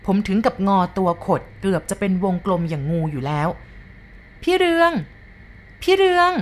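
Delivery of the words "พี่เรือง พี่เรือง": very high, louder ghost voice calling out, long and drawn; a spirit luring him by name, piercing and high; high eerie ghost calling his name; ghostly call. A narrator's reading. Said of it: "มันวกกลับมาเรียกผม".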